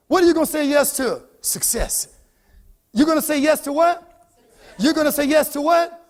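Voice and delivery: rousing call-and-response; motivational preaching. Real, not acted. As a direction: push the audience to answer back. Prompts crowd for an answer.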